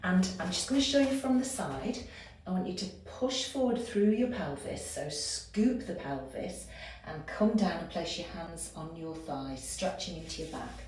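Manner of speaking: talking while holding a low squat; in a deep squat. Real, not acted. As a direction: speak from down in a squat. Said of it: "hold the squat".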